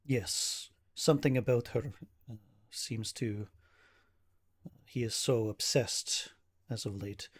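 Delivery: halting, grave account in lightly acted formal speech; worried protective brother. Ismark reports his sister's stalker, mildly troubled manner. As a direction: pick through the words with understated unease.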